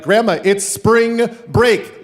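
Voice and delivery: high, very loud, stretched out; shouting to be heard. Retold or imitated. Grandson repeating himself to deaf grandma, slow high yell. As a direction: yell each word slowly to deaf ears.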